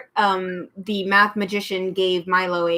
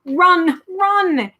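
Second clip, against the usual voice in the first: urged; 10 semitones higher, 4 dB louder than usual. A narrator's reading. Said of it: "it urged once more".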